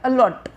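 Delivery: अलॉट with लॉट carrying the weight; stress on second syllable. Shown as a demonstration. Teacher confirming the stressed part to the class, stress on लॉट. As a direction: land firmly on लॉट in अलॉट. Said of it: "लॉट पे पड़ता है".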